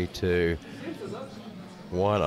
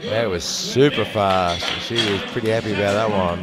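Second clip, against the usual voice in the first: excited; 6 dB louder than usual. Real, not acted. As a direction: stretch out the super with glee. Praising a fast lift.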